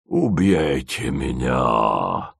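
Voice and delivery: low, slow and quietly glad; quiet joy. Acted. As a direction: welcome death with soft relief. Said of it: "с тихой радостью согласился Джим".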